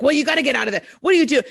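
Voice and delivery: a touch of an annoyed father scolding; mock stern, rising push; imitating angry dad. Dad scolding his crying daughter, mildly annoyed. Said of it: "get angry with me and be like".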